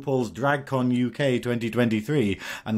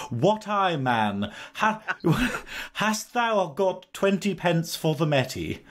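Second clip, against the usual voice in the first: mock posh Geordie; 5 semitones higher, slower than usual. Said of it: "It's just like".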